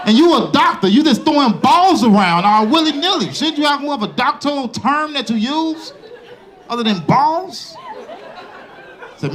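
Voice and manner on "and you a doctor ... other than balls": outraged, let him have it; indignant rant. Retold or imitated. Comic indignant rant at the doctor.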